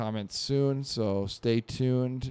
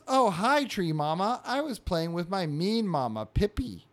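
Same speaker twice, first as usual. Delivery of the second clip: put-on higher-pitched childlike chirp; cheerful little critter voice, pitched up; baby squirrel voice; 6 semitones higher, 3 dB louder than usual. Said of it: "so the baby says".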